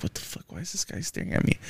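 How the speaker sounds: under-the-breath, near-whispered retold disbelief; Bill Burr muttering. Podcaster retelling the comedian's reaction to a staring stranger, muttered under the breath. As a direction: imitate a baffled aside, hushed and quick.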